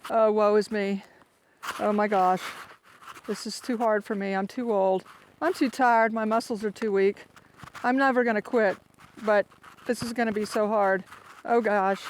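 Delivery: mock woeful whining. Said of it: "my attitude just starts getting like".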